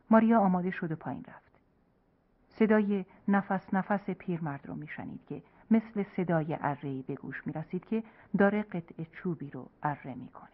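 usual speaking voice

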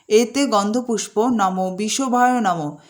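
slow reverent intoning; slow mantra recitation. Acted. Host worshipping Nandi, slow reverent recitation. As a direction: recite it as an offering.

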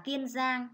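Kiên Giang said slowly, with a full iên rhyme in Kiên; Kiên Giang modelled slowly for the class; careful pronunciation. Shown as a demonstration. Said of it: "chú ý cho cô vần yên trong tiếng Kiên".

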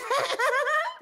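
very high staccato cackle; shrill rapid-fire cackling; mock startled cackle. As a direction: burst into a high, rapid laugh. Imagined doll scare reaction.

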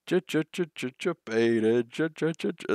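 a playful stuck-record stutter; mock stutter. Real, not acted. Streamer teasing with a fake stutter, slow on the word. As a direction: stammer the j's, then drag out the word slowly.

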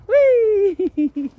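high, loud playful squeal; excited squeal. Real, not acted. Owner squealing to dog at play, excited. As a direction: squeal with glee as the dog runs.

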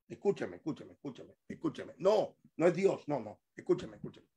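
low, soft aside; quiet insistence. Real, not acted. Preacher to those answering without listening, quiet insistence. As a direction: softly keep asking them to listen.

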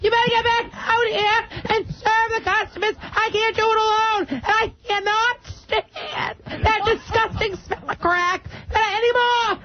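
lightly voiced scolding Massachusetts cousin; a hint of a breathless nagging aunt; cousin Gogo. Comic yelling at Bobby from the shop floor, lightly voiced. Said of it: "It's my cousin Gogo".

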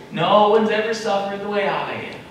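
exaggerated complaint. Believer exaggerating a lament to God, hammed up. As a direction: ham up the suffering. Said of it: "We can exaggerate".

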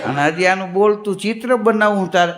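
bitter echo leaning on બોલતું; mock the word બોલતું with disgust; fed-up husband repeating the painter; annoyed sarcasm. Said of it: "ઓલાને મગજ ગયો".

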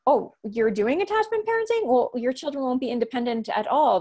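mock-concerned busybody, high on the opening; lightly acted tut-tutting; judgmental mimicry. Voicing judgmental people at mothers.

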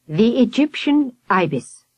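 slow, sighing reverence; relieved sigh. A narrator's reading. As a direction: breathe it out with relief. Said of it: "the professor sighed".

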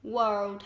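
"world" modelled as one careful word with an R; correct world pronunciation. Shown as a demonstration. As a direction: demonstrate "world" with R and closing D. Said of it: "mà phải đọc là world".

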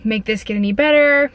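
short of breath, hurts to breathe. Real, not acted. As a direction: talk through painful short breaths. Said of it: "Sorry, I'm short of breath".

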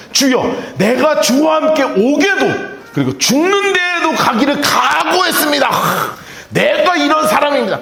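mock-earnest disciple declaring; Peter's vow. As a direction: proclaim loyalty with full fervor. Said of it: "그가 말하되".

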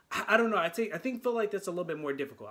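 rushed, tripping over the words; real hurried, stumbling speech; talking too fast. Real, not acted. Reactor racing through an opinion to viewers, talking too fast. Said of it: "I'm talking so fast".

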